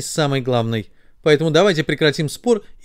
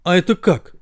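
puzzled question, pitch lifted; surprised; 4 semitones higher than usual. Acted. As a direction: ask it in wonder. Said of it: "удивились ноги". (удивлённо)

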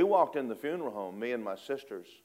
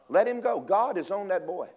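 excited; 8 semitones higher, 5 dB louder than usual. Retold or imitated. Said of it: "I thought".

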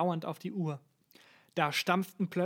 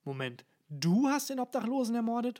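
higher-pitched question through cake; mouth full; 6 semitones higher than usual. A narrator's reading. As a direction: talk around a big bite of food. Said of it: "den Mund voll mit Kuchen". (mit vollem Mund)

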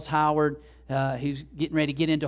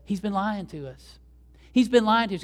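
indignant accusation, rising higher on the repeat; mock outrage, building; retold fury; 5 semitones higher than usual. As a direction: act out a furious trainer telling on his jockey. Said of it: "And he's furious".

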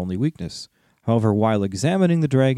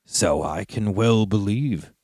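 growling dragon guarding treasure; slower than usual. Acted. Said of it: "said Smaug".

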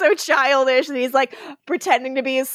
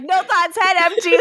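lightly raised, airheaded tone; airy high voice; 6 semitones higher than usual. Retold or imitated. Retelling a TV scene to her co-host, airy and high. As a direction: play the empty-headed girl lightly. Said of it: "she was like".

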